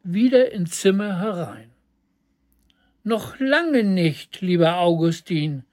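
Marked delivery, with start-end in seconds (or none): 3.0-5.6 giggling. Acted. Elisabeth answers the song with a light giggle. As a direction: answer the song with a small chuckle. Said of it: "kicherte Elisabeth".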